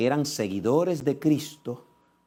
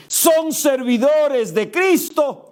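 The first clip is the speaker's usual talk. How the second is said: high, loud and slow, every word pushed out; proclaimed loudly; 13 semitones higher, 7 dB louder, much slower than usual. Acted. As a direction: declare it to the crowd. Paul's claim, loudly preached.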